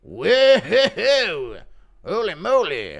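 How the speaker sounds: high cartoon kid voice, shouting; Cartman impression. Viewer asks for Cartman, he yells like a cartoon kid. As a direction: squeal like a cartoon kid in the front seat. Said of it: "Impression of Cartman sitting in the front".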